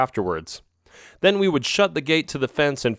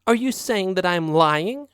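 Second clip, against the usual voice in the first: angry; 8 semitones higher than usual. Acted. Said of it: "she asked angrily".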